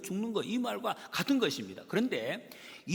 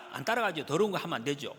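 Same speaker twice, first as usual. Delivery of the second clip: normal talking voice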